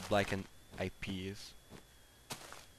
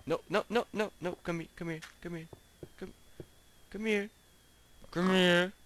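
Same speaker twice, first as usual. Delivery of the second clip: high, loud frantic no and come here; frantic calling; 8 semitones higher, 6 dB louder than usual. Real, not acted. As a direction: yell after the runaway pig. Pig escaping.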